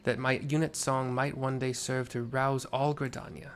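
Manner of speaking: understated knightly tone; lightly voiced knight. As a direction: read it like a courteous soldier. Sanson thanks me.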